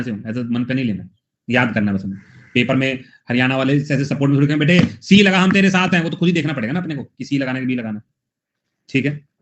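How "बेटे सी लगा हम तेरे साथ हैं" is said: cheering voice, louder and higher; mock cheering. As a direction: egg on the student, loud and high. Haryana supporters cheering in exam. (ज़ोर से हौसला बढ़ाते हुए)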